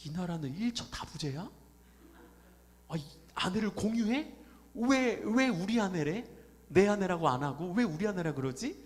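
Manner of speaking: mildly shocked, baffled questioning; acting out a foreigner's bewilderment; astonished foreigner. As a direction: question it in mock disbelief. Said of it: "깜짝 놀란다는 거예요".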